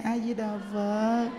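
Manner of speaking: slow, soft drawn-out chant; soothing a child. Acted. Carer to crying grandchild, slow soothing chant. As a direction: lull the baby slowly with the chant. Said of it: "mình dỗ nó".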